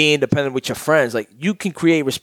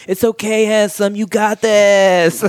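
high, sugary consoling voice, last words slowed; mock sympathy; 7 semitones higher, 4 dB louder, slower than usual. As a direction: coo it high like a pitying fan. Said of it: "hit me with, like, little D Ms like".

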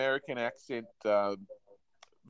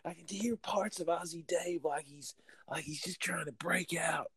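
whisper; 6 semitones higher, 11 dB quieter than usual. Real, not acted. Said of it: "whispered remark".

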